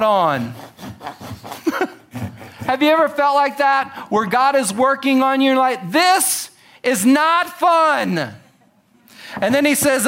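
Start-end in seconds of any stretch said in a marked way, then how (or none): 5.9-8.3 slow, laughing, high "this is not fun"; mock complaint while laughing. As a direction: whine it through a laugh. Preacher voicing congregant under God's work.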